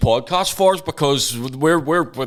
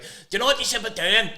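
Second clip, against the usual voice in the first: high, quick put-on advice; mock know-it-all trainer; 7 semitones higher, 4 dB quieter, faster than usual. Co-host imitating novice trainers giving advice, mock know-it-all. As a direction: butt in as a self-styled expert. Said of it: "they're just like".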